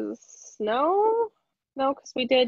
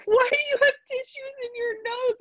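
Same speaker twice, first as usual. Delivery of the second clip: higher amused coworker voice; coworker laughing. Retold or imitated. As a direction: ask it like a giggling coworker. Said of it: "she was like".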